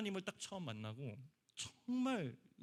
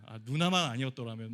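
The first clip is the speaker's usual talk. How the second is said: louder frustrated groan of a thought; exasperated thought; 6 dB louder than usual. Retold or imitated. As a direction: grumble under the weight of annoyance. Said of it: "이런 생각이 들었었거든요". (누나 때문에 짜증 난 혼잣말)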